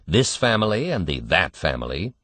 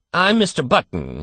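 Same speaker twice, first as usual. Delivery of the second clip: faltering; 9 semitones higher than usual. A narrator's reading. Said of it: "he managed to articulate".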